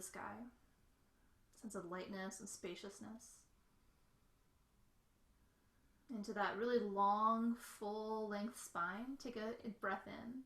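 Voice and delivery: unhurried visualisation with long pauses; guided meditation. Real, not acted. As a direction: let each phrase settle before the next. Leads a body visualisation.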